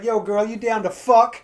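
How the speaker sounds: slow, leering mock come-on; sleazy dude reading his own message; crude message guy. Comic reading a crude dating message aloud as a sleaze. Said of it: "just like".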